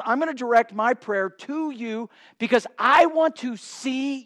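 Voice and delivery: loud, insistent declaration to God; forceful acted prayer, punching key words; impassioned prayer. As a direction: preach it as a determined vow. Voices psalmist's determined prayer to God.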